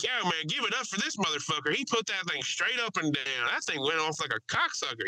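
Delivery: high-pitched cheer, no real volume; mock yell. Passenger rallying applause for the pilot, mock yell. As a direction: imitate yelling praise to a whole cabin. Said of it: "He's, like, yelling".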